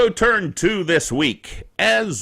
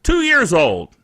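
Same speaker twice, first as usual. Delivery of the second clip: ordinary talk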